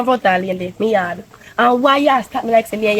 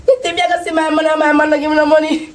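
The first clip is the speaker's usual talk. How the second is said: gold digger; 4 semitones higher, faster than usual. Acted. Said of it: "my man say me I give him a gold digger impression".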